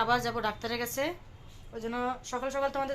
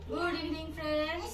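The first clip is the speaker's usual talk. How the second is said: cheery greeting; 6 semitones higher, 3 dB quieter, slower than usual. Real, not acted. Greeting viewers in evening.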